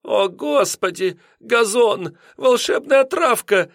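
high-pitched landlady gasping over her lawn; breathy lament. A narrator's reading. Landlady mourning her ruined lawn, breathy and high. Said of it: "с придыханием повторяла она".

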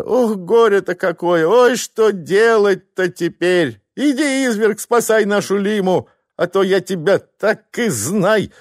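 wife lamenting and threatening husband; wailing and threatening. Acted. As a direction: moan over the disaster, then order him.

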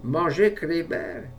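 slow, high, stunned disbelief; aghast disbelief. A narrator's reading. Le vieil homme horrifié qu'on mange son furet, incrédule et lent. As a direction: say it as if the idea is monstrous. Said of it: "subite tristesse".

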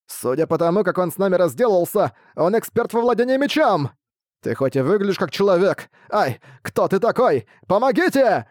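high, rising squeaky panic; frightened high bat chatter; panicky bat voice. A narrator's reading. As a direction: cry for help like a small bat. Bats panic.

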